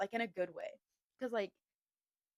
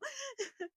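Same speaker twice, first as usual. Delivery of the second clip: high whimpering laugh; 5 dB quieter than usual. Acted. Mock-overwhelmed after retold gushing.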